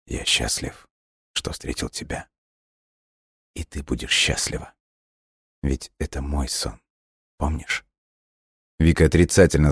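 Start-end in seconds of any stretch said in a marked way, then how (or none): 0.1-7.9 fading voice in her mind. A narrator's reading. Dying boy's last words inside girl's mind, fading and hushed. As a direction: let it drift away softly. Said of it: "услышала только в своём сознании".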